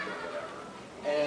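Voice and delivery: low, slow brush-off; dismissive. Retold or imitated. Convention crowd brushing off the newcomer, dismissive. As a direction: drop low and drag it out, unimpressed.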